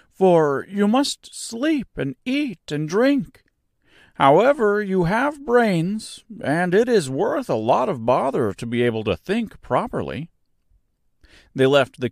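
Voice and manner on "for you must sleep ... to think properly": creaky scarecrow. Acted. Scarecrow continues his remark.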